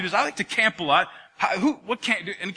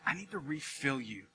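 God speaking gently; 5 semitones lower, 13 dB quieter than usual. Acted. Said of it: "where God's saying".

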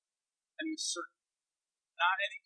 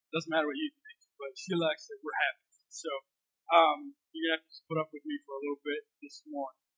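low, husky voice from losing it; hoarse voice; 5 semitones lower, 4 dB louder than usual. Real, not acted. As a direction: speak through a worn-out, hoarse throat. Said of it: "I've been losing my voice the last two weeks".

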